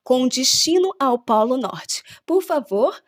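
airline cabin announcement; polite, formal in-flight announcement voice; flight attendant. Pretend. Pilot announcement in play.

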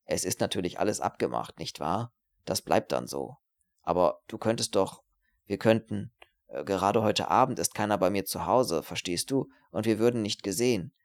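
insinuating proposal with swooping pitch; wheedling, aroused student. Acted. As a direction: coax her furtively, searching for words. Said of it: "Er atmete stärker".

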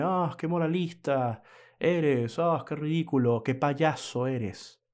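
slow, sneering mock of a heckler; mocking critic. Imagined listener mocking the moralizing host: slow sneer. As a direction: drag it out like a scoffing critic. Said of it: "venga alguien a decirme".

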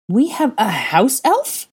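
slow, high, indignant cry; outraged. A narrator's reading. Hermione learning her future family keeps an elf, outraged high cry. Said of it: "Hermione cried in outrage".

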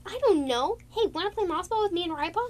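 put-on childish invitation to play; bouncy apprentice. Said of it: "Snowpool was like".

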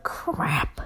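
low breathy whisper of dismay; whispered crap. Retold or imitated. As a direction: mutter it under your breath in panic. Panicked inner thought, whispered.

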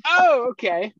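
high, loud retold backing down; exaggerated alarmed acceptance; mock cowed reply. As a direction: act startled into agreeing, pitch jumping up. Son yields to yelling mother.

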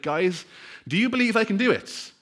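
rally the crowd from the rope edge; calling out. Retold or imitated. Acrobat calls out to crowd.

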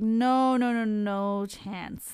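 a long, drawn-out NO, then firm NO CHANCE; slow, emphatic "no, no, no chance"; emphatic refusal. Real, not acted. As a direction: stretch the first "no" and insist on "no chance".

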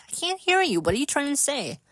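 high, loud call of can't hear you; friends shouting. Retold or imitated. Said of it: "They're like".

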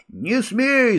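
sharp high cry of alarm; shout. A narrator's reading. Boy stopping Mila from untying the knot, high alarmed cry. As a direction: yell to stop her. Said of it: "закричал я".

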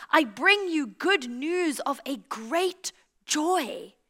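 slow, drawn-out herald's announcement; angel's proclamation. Acted. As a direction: proclaim it slowly like a heavenly messenger. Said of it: "the angels cried out".

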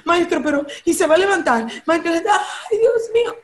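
lightly acted fretting, rushed at first; mock anxious pleading. Jairo pleads with the Master amid the crowd, mock anxious.

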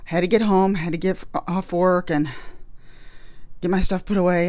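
slightly winded talking; out of breath. Real, not acted. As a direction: catch your breath between words. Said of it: "I'm a little out of breath".

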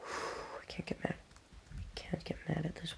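slow, breathy whisper after a sigh; whisper to self. Real, not acted. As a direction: hush yourself to keep calm. Calming herself down.

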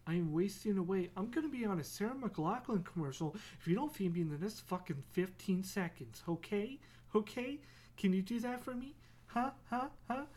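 rising hammed-up nagging cat; pushy cat voice. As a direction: badger him like a starving cat. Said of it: "she'll be like".

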